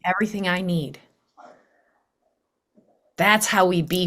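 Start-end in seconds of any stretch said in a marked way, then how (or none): 0.1-1.0 soft, breathy whisper of gratitude; grateful whisper. Retold or imitated. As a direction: breathe it out thankfully under your breath. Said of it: "take a breath and be like".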